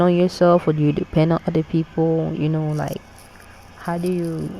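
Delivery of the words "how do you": words stretched through a yawn. Real, not acted. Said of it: "I was yawning".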